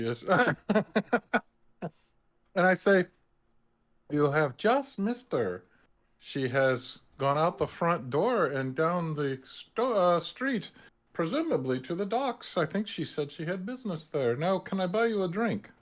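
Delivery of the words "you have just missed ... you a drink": deceptive. Acted. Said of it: "Go ahead with this, uh, deception".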